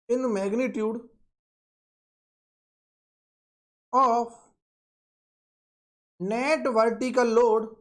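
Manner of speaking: very slow, word-by-word dictation for note-taking. Shown as a demonstration. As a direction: spell it out slowly so students can write it down. Teacher dictating a definition slowly. (धीमे-धीमे लिखवाना)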